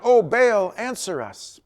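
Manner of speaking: high, loud desperate cry to Baal. A narrator's reading. Priests calling on Baal from morning to noon, loud pleading cry. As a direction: call out to an idol that won't answer, pleading hard. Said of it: "crying out".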